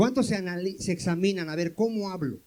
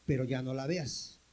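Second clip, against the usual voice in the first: soft admonition; 7 semitones lower, 7 dB quieter than usual. Acted. God's voice to the sinner.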